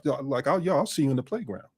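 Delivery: softly muttered veiled warning; under the breath. Retold or imitated. Man leaning in to someone testing him, under his breath. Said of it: "a lean in that I would say under my breath".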